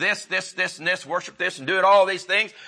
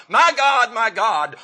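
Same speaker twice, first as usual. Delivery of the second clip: quoted cry, pitched up and loud at first; 4 semitones higher, 5 dB louder, slower than usual. Retold or imitated. Preacher quotes Jesus on the cross, crying out. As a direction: call out in anguish, as a preacher quoting.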